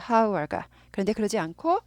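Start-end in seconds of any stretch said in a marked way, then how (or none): 0.1-0.7 "hour" wrongly begun with an audible h, like "how-er"; H sounded. Shown as a demonstration. Teacher showing how it would be if H sounded, H sounded. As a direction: breathe a clear h onto "hour". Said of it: "H가 발음이 났으면".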